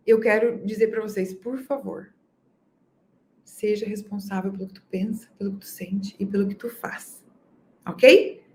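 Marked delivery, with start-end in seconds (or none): 1.3-7.2 whisper. Real, not acted. Pleading with listeners.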